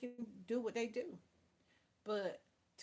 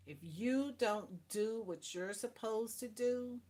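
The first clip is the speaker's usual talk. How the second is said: ordinary talk, nothing marked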